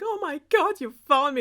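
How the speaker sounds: high, hammed-up gasp of joy; mock-overjoyed, pitch leaping up; excited storybook princess. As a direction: squeal it like a thrilled princess. Princess reunited with prince, acted.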